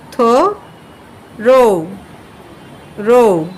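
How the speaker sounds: থো then রো, split apart slowly; spelling it out by sound. Shown as a demonstration. Teacher sounding out the spelling of through for students. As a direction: sound out থো রো syllable by syllable. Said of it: "বানানটা হচ্ছে এরকম যে".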